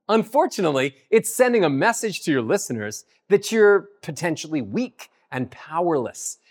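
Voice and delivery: ordinary talk, nothing marked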